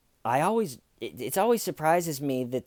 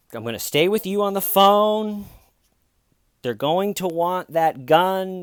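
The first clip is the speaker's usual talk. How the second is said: comforting dispatcher; 8 semitones higher, 6 dB louder than usual. Retold or imitated. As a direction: imitate a dispatcher keeping a caller on the line. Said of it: "doing that comforting thing that they do".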